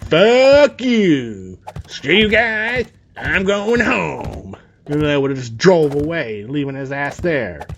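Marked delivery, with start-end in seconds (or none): 0.1-4.6 put-on high, whiny kid yell, pitched way up; mock Cartman outburst. Narrator yelling at brother, bratty and high. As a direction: throw a bratty cartoon tantrum.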